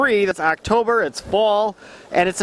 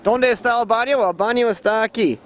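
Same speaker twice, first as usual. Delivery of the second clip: bad Spanish; 4 dB quieter than usual. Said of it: "my Spanish is bad".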